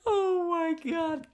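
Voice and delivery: high, drawn-out oh my God through laughter; helpless high-pitched disbelief; laughing exclamation. Real, not acted. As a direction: squeal it out while cracking up. Cracking up after reading a post.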